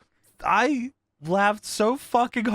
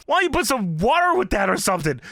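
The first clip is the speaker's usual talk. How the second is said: mock disgust; 3 semitones higher than usual. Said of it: "Booker has a disgusted look".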